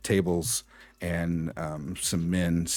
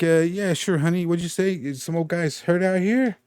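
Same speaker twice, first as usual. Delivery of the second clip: gruff thug voice; 12 semitones higher, 6 dB louder than usual. Acted. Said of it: "He's like".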